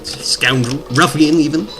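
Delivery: lightly hammed-up bad British accent; horrible British accent. Gamer playfully threatening a game boss, bad British accent. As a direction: put on a hokey British voice. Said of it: "I love my horrible British accent".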